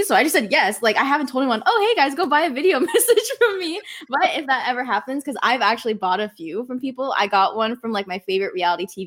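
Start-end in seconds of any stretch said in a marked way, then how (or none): 1.7-3.8 1 mock self-promo. Mock plug to her fans.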